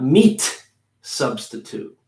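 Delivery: "meat" with a heavy T, a pause, then "substitute" faded; wrong way, broken apart; overdone T and pause. Shown as a demonstration. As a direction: break the phrase after a hard "meat". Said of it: "And not".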